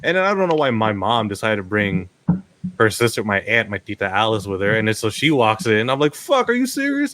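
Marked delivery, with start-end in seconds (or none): 6.1-7.1 high-pitched incredulous protest, acted out; mock disbelief. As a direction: squeak out the retold dismay. Acted dismay as aunt walks in.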